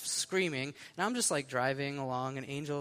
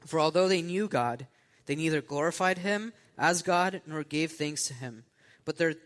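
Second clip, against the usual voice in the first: measured, formal Bible reading; scripture reading. Acted. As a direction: read the passage aloud to a congregation. Reads scripture aloud.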